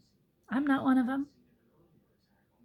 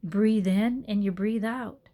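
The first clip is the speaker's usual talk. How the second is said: yoga cue; slower than usual. Shown as a demonstration. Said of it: "I preach it all the time when I teach it".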